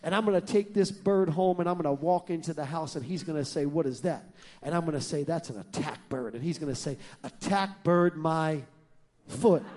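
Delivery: low, hushed scheming wife; a hint of a sly whispering wife; wife plotting revenge on her husband, hushed; conspiratorial lady. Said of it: "She said".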